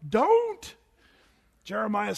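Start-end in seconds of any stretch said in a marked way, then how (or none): 0.1-0.8 high, loud firm "Don't."; emphatic don't. Real, not acted. Preacher warning young people off the slogan, emphatic. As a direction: cut them off with a sharp "Don't.".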